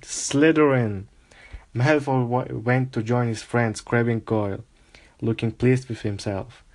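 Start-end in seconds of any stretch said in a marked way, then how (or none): 0.0-1.1 drawn-out slow cry of the house name; mock hat scream. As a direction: announce it with a long ringing call. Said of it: "when it screamed".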